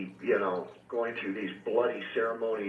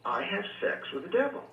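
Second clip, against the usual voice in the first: higher, pressing the point; insistent repeat; 7 semitones higher than usual. Retold or imitated. Girl insisting to the reverend he doesn't understand, insistent. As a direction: insist on it, as if she won't be put off. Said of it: "She kept saying".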